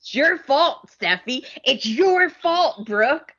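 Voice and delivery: mock her shifting blame; mock Sheila blame. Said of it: "she's like".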